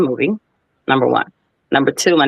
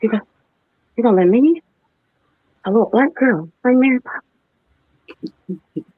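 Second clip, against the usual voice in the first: stunned disbelief; 7 semitones higher than usual. Retold or imitated. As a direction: draw it out in wide-eyed disbelief. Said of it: "I said".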